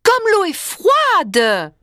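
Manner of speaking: high, slow shivering cry. Acted. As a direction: squeal it out, freezing. Cold water exclamation.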